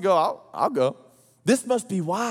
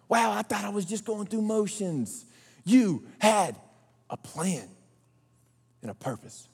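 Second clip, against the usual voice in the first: awed hush; 5 dB quieter than usual. Retold or imitated. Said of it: "awed realization".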